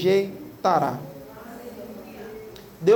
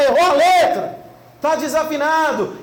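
mock yell from the house; 6 semitones higher, 5 dB louder than usual. Someone yells from the house.

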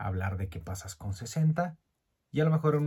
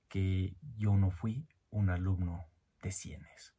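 whispered confession; slower than usual. Real, not acted. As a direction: let the secret slip out slowly. Confessing bad grades.

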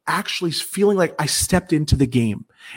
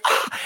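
quick mock scream of shock; brief retold shriek, held back; short imitated scream. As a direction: imitate her startled scream. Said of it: "She screamed".

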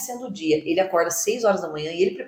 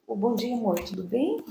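sweet little voice; 5 dB quieter than usual. Retold or imitated. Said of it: "Uma vozinha meiga".

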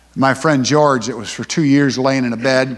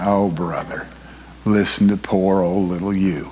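exasperated God; 7 semitones lower than usual. Pretend. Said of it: "shaking his head and rolling his eyes".

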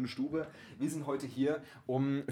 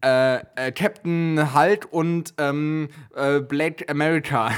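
hesitant put-on child voice; clueless kid voice; 3 semitones higher, 6 dB louder, much slower than usual. Spielt ahnungsloses Kind. (stockende Kinderstimme)

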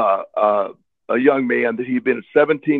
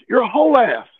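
put-on angry kid; 10 semitones higher than usual. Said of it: "And he goes".

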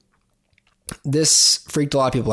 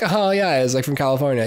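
lightly voiced surfer type, not meant; mild mock laid-back California voice; mock California bro; 2 semitones higher than usual. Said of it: "Not like".

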